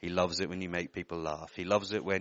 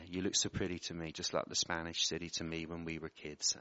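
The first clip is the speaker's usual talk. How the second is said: emotional, softer; 3 semitones lower, 6 dB quieter than usual. Real, not acted. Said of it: "I'm feeling a bit emotional".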